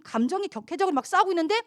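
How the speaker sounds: usual speaking voice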